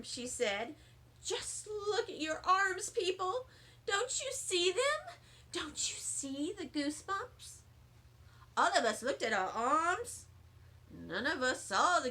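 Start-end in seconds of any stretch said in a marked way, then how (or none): 1.2-7.6 high coaxing. Acted. Lucille urging the kids to look.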